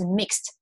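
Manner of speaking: "mixed" as one syllable ending in a t sound; "mixed" with no extra vowel before the ending. Shown as a demonstration. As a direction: say "mixed" like "mikst". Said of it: "所以它其实只有一个音节".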